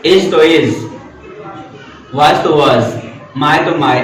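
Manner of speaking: "is", "was", "my" each set apart by pauses; isolated, deliberate "is", "was", "my"; full weight on each word. Shown as a demonstration. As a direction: give "is", "was" and "my" each firm, separate weight. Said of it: "ऐसे आपको प्रयास करना चाहिए".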